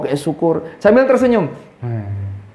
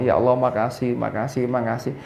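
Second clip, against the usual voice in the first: low, much softer makasih, almost breathed; soft thankful prayer; 4 semitones lower, 7 dB quieter than usual. Shown as a demonstration. Preacher shows the right way to pray, soft and thankful. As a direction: thank God quietly and gently. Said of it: "doa itu mesti kita terima kasih dulu".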